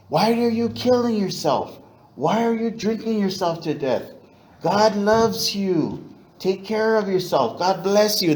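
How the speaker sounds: high-pitched imitation of a Filipina nurse. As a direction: mimic the night nurse at his bedside, pitched high. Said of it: "whispering things to me like that".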